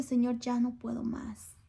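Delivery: exhausted whispered prayer; whispered plea. Retold or imitated. Mother retelling her prayer to God, whispered despair. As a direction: breathe it out as a broken plea.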